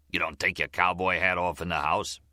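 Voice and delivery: lightly voiced upset, looking to pick a fight; fussing, upset. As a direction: needle him with understated annoyance. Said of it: "Upset about Gloria ... it sounded like".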